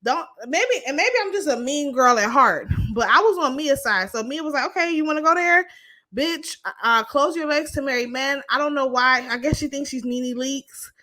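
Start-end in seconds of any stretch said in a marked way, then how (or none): 4.7-8.4 high-pitched mock challenge, easing off; retold confrontation. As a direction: imitate a friend squaring up for a fight. Retold quarrel, Mia confronting Jackie.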